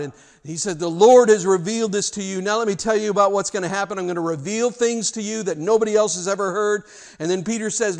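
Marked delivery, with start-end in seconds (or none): 0.8-6.8 Jesus speaking. Acted. Preacher voicing Jesus to Peter.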